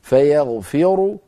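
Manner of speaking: slow فيغفر with a heavy r and full final u; connected heavy ra. Shown as a demonstration. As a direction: recite فيغفر as if reading on, heavy ru. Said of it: "عند الوصل الراء مفخمة".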